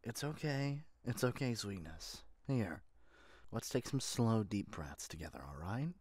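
soft, gentle comforting voice; calm someone down, softly; reassuring. Acted. Soothing a crying Sweetness, softly reassuring.

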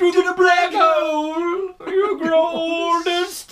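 high, slow, booming shriek; shouting witch voice. Acted. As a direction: screech it like a cursing witch. Continuing the shrieked curse.

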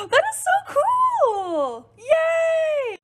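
high, drawn-out delighted cheer; thrilled squeal. Real, not acted. Maker watching chocolate bomb open, high thrilled squeal. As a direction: squeal with delight, stretching the words out.

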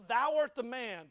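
deliberate, weighty accusation; prophet's accusation. Retold or imitated. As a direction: quote the prophet confronting the king. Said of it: "he comes before and he says".

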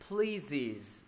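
"Pleases" as PLEE-ziz, falling at the end; plural iz ending. Shown as a demonstration. Teacher answers own question, "Pleases" with iz ending. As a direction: add a clear "iz" to "Pleases". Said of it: "thêm S vào đọc là gì?".

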